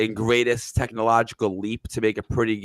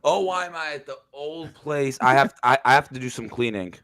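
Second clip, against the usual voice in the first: big hall echo; 2 semitones higher than usual. Real, not acted. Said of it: "you can hear the echoing".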